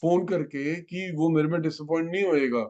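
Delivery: lightly voiced guru giving calm assurance; Guruji's voice. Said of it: "गुरुजी तंग कर रहे हैं".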